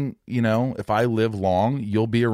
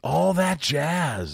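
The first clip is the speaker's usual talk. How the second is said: higher, drawn-out disbelief; incredulous repeat of the answer; surprised echo; 5 semitones higher, much slower than usual. Real, not acted. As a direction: repeat it slowly, taken aback. Echoes an unexpected answer in surprise.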